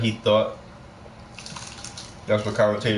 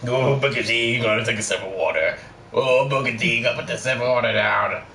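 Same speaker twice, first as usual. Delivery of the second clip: lightly voiced Nash, quick, mocking his asides; mock Kevin Nash. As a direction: tease him like a wrestler whispering to his partner. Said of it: "He was like".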